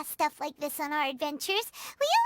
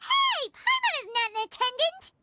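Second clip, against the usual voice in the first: indignant protest; 7 semitones higher than usual. Acted. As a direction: object sharply to being called an attendant. Paimon objects to being called attendant.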